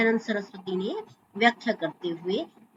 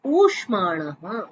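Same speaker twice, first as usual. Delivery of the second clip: slow sutra citation; 3 semitones lower, slower than usual. Shown as a demonstration. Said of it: "ये महर्षि पाणिनि का सूत्र है".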